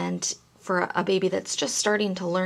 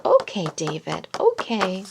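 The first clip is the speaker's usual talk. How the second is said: reassuring. Shown as a demonstration. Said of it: "I always try to add the pat".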